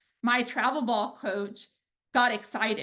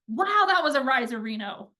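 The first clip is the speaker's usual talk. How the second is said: a touch louder, delighted wow; excited praise; 3 dB louder than usual. Shown as a demonstration. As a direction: sell the riserino with real delight. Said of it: "that energy's different".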